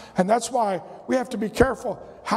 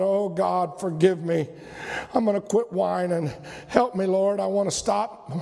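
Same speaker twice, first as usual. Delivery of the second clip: humble repentant prayer; 4 semitones lower than usual. Retold or imitated. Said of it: "I thought".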